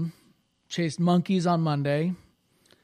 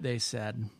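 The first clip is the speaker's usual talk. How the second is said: whisper; 6 semitones lower, 7 dB quieter than usual. A narrator's reading. Narration dropped to a whisper.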